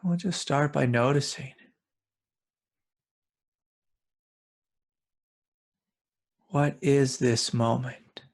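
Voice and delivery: calm guided meditation with long pauses; unhurried meditation guide, spacious pauses. Real, not acted. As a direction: lead listeners gently inward, leaving long silences between phrases.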